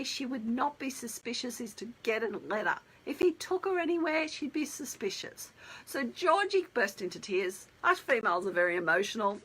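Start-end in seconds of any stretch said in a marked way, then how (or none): 4.3-5.5 hushed, confiding whisper; whispered aside. Pretend. Celebrant confides to viewers in a whisper. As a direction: drop to a secret whisper.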